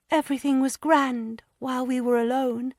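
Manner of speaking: put-on high, hesitant girlish voice, stammering; a frightened young wife struggling to confess; young distressed woman. A narrator's reading. Lydia hesitantly confiding her fears to Anne.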